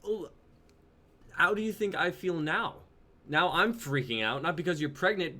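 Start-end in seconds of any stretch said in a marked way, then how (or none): 1.3-5.4 louder, hurt and frustrated; upset, raised voice. Acted. Jonah confronting his girlfriend, angry and hurt. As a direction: demand an answer, rattled.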